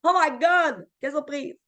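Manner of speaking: hammed-up surprise; fake surprise. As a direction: overplay the shock like you never knew.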